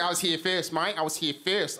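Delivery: lightly voiced Australian protest; drunk Aussie accent. Drunk Aussie claiming the chair, Australian accent. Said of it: "this really drunk Aussie guy".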